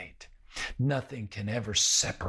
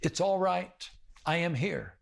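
reassuring; 7 semitones higher than usual. Retold or imitated. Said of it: "He said".

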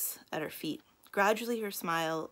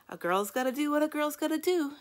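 mock sigh; 10 semitones higher, 4 dB louder than usual. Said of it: "she sighed".

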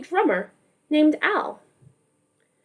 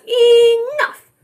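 fed-up neighbor; 9 semitones higher, 5 dB louder than usual. Acted. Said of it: "this one says".

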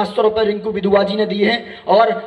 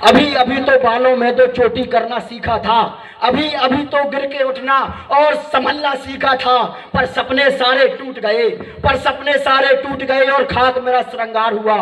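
recited lament in a young girl's voice, lightly voiced; poem recital; 2 semitones higher, slower than usual. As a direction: build the verses to a grieving close. (मंच पर करुण कविता पाठ)

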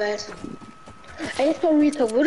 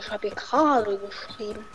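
lower, mumbled mimicry of friend; mocking imitation; 3 semitones lower, 5 dB quieter than usual. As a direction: parrot him dully to tease. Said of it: "Digga, der sagt doch". (spöttisch nachgeäfft)

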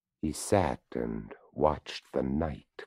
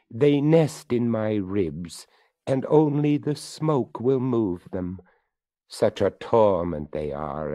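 higher, louder skeleton voice; 4 semitones higher, 6 dB louder than usual. Acted. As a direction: speak up as the courteous skeleton. Skeleton speaks to the boy.

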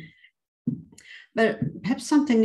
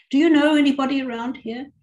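eager question; 6 semitones higher, 7 dB louder than usual. Acted. Niece chatting to visitor.

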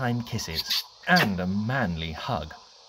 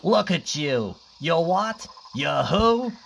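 louder, jeering hyena taunt; mocking laugh; 4 semitones higher, 3 dB louder, slower than usual. Mean hyenas mocking the croc in a frock, jeering. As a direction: sneer it out at the croc. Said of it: "the mean hyenas laughed".

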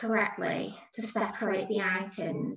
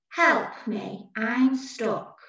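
emphatic cry for help; 3 semitones higher, much slower than usual. Shown as a demonstration. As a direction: call out for help as if trapped. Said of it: "it's being said with emphasis".

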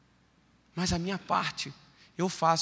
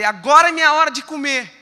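eager; 7 semitones higher, 12 dB louder than usual. Retold or imitated. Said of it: "Eu falei".

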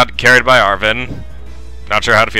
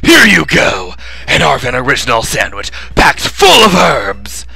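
excited character voice; 2 semitones higher, 3 dB louder than usual. Acted.

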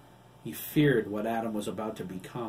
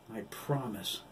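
calming promise; 4 dB quieter, slower than usual. A narrator's reading. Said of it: "He needed to calm down".

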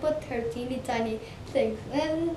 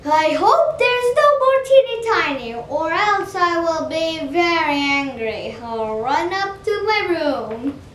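whiny higher character voice; higher, louder annoyed voice; 3 semitones higher, 5 dB louder than usual. Acted. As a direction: complain loudly and high. Character voice, complaining.

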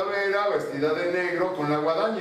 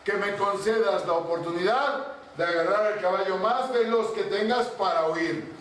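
higher, begging servant voice; frightened pleading; 6 semitones higher than usual. Acted. Servant begging the king for a horse, frightened pleading. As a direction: plead for your life, a little trembling. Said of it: "tembloroso y desencajado le decía".

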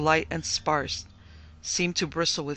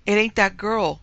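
higher, louder anxious denial; frightened gasp; 5 semitones higher, 7 dB louder than usual. A narrator's reading. Frightened maid contradicting her mistress, gasped denial. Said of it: "gasped Cordelia".

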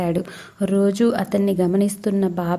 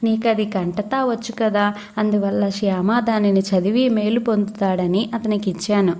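Baba's calm admonition. Acted. A saint rebukes an angry devotee over a book, mild calm reproach. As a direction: rebuke him gently, like a patient elder. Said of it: "బాబా శాంతంగా రామదాసిని హెచ్చరించారు".

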